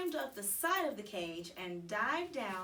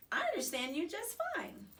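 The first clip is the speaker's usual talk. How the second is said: high squeaky hamster pleading; frantic squeak; 10 semitones higher than usual. A narrator's reading. Hamster insists to the girl, high urgent squeak. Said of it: "I frantically squeaked".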